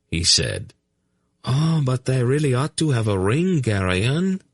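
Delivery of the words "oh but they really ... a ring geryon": higher, defensive plea; a nobleman justifying himself; high, mildly defensive whine. Acted. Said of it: "Laldoran said defensively".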